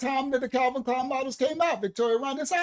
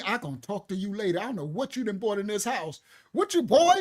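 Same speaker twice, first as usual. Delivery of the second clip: suspicious grandma; 2 semitones lower than usual. Retold or imitated. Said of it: "and then she be looking at me".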